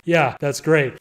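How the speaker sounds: dry mock approval; feigned approval; sarcastic. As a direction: give faint praise sarcastically. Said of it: "sarcastically, I was like".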